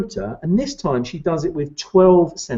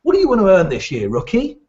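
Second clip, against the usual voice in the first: keyed-up boss; 5 semitones higher, faster than usual. Retold or imitated. Owner pressing the rookie on earnings, fast and pushy. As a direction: mimic an overeager owner grilling a rookie. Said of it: "they all talk like that".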